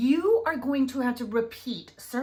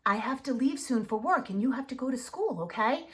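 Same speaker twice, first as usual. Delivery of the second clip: kneel down and explain clearly to a little one; specific and calm. Shown as a demonstration. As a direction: parent at child's level giving specific instructions, gently. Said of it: "get down on their level".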